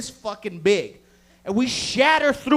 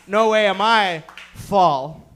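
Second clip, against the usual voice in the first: defiant shout; 8 dB louder, slower than usual. Pretend. Acting out audience member.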